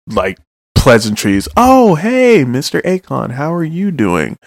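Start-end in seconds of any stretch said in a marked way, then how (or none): 1.6-4.4 high, chirpy sing-song greeting; bright mock-cheerful hello, pitched up high; silly cheerful Urahara. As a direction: play it breezy and goofy like Urahara. Urahara's silly pleasantries voiced.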